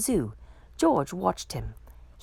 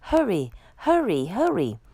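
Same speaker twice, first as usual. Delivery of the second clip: rising urgent call, louder on the last; urgent hurry; 2 semitones higher, 4 dB louder than usual. Acted. Firemen urging each other on, urgent. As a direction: rush them out the door.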